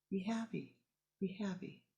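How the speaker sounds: the teaching remembered years later; gentle reminder. Acted. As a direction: let it settle into quiet contentment. Ten years later, gently recalled.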